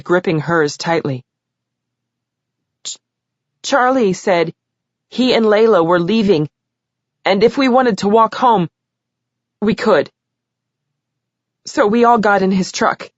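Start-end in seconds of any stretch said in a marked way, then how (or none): 2.8-13.1 trembling, higher tearful voice; shaky voice. Acted. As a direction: let the voice shake. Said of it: "Her voice was shaking".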